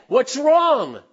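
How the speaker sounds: high, loud caring question; concerned husband. Acted. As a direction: ask your hurting wife. Husband voiced asking his wife.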